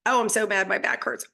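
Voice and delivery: half-hearted griping about aches; mock frustrated complaint. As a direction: imitate someone huffing at their own body. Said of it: "So we don't go".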